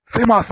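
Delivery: emphatic "ফেমাস" trailing into sustained sss; long S. Shown as a demonstration. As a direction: hold the s at the end of "ফেমাস". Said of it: "এসটা অনেকক্ষণ ধরে হবে".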